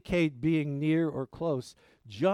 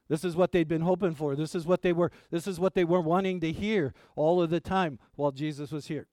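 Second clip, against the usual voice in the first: mock excitement; 2 semitones higher, 4 dB louder, faster than usual. Ironic build-up before "Wrong.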